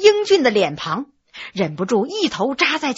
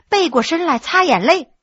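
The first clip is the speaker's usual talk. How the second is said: plain reading voice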